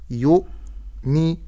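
"يؤمي" slow, with a gap after the glottal stop; still hamza. Shown as a demonstration. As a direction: split "يؤمي" at a clean hamza. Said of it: "ولكن أقول". ("يؤمي" بهمزة ساكنة)

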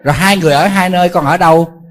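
monk loudly scolds an irresponsible son in mock anger; mock scolding.

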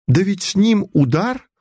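high astonished question on ним; astonished she doesn't know; incredulous rise. A narrator's reading. Friend astonished the mother hasn't heard. Insisting on the stroke.

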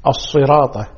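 الصراط with heavy emphatic s and t; weight the s and t of الصراط; sad and ta. Shown as a demonstration. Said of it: "بالصاد ثم بالطاء". (الصراط بالصاد والطاء)

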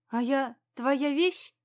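slow, pointed counter-question to a husband; challenging question. A narrator's reading. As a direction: challenge him, drawing the words out. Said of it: "задала мужу встречный вопрос". (медленный вопрос с вызовом)

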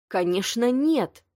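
yelled. A narrator's reading. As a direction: yell the no at her. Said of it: "заорал Марк".

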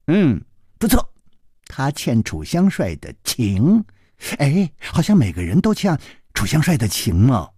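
musing hums and stretched words; lightly voiced pondering boy. Boy reasoning about favours owed, lightly musing. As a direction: reason it out aloud like a youngster.

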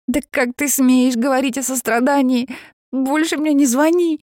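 high, loud furious outburst; angry shout. Acted. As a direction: throw it at him in fury. Jenny furious at Reeve.

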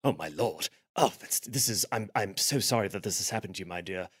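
low, soft gallant soldier voice; a quietly fussing gentleman officer; hushed chivalrous murmur. Acted. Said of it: "he goes".

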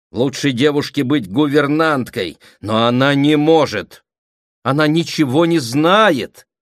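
loud, high protest; crying out. A narrator's reading. Aunt protesting about the girl's future, crying out. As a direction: exclaim it heatedly. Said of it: "вскричала Прасковья Андреевна".

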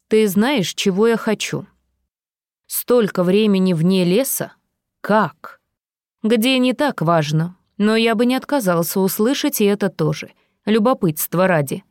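silky threatening villain; menacing villain. Acted. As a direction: purr the threat with mock affection. Villain interrogates captive.

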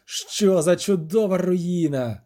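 slow, savoured admiration; genuine delight. A narrator's reading. Onlooker marvelling at the wonderful ruin, delighted. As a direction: relish each word slowly, enraptured. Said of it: "зі справжнісіньким захватом".

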